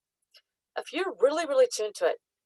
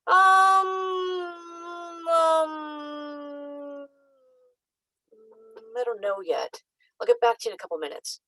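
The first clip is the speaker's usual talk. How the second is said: mock dithering; 7 semitones higher, slower than usual. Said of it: "The higher self doesn't go".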